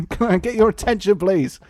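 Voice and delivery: hammed-up Bad News Barrett; Bad News Barrett impression. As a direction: demand the crowd's attention as a grim heel. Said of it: "So we've got Bad News Barrett".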